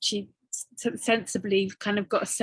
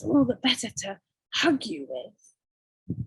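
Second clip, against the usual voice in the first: slow wolf; slower than usual. Acted. Wolf's refrain.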